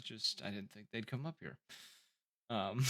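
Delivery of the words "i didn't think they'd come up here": soft aside to himself; muttering under breath. Acted. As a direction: mutter it quietly, half to yourself. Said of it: "mutter under his breath".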